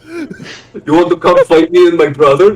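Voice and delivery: hammed-up Russian dwarf spoiling for a fight; mock Russian tough guy. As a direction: throw down a mock challenge, drawn out.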